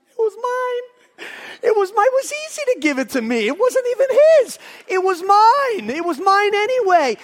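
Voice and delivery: high, straining emphatic outcry; impassioned exclaiming. Real, not acted. Preacher revealing the money was his own, crying out high. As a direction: cry it out to drive the point home.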